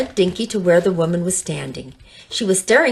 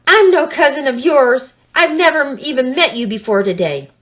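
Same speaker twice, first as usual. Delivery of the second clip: hissing; 6 semitones higher, 5 dB louder than usual. Acted. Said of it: "now he hissed".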